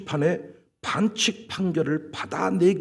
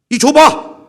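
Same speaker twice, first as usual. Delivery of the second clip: 1 mock shout; 6 semitones higher, 11 dB louder, slower than usual. Pastor grabbing stick while cleaning.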